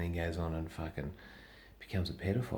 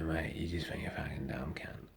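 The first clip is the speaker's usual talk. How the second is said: whispered fan quote; 6 dB quieter than usual. Retold or imitated. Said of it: "they go".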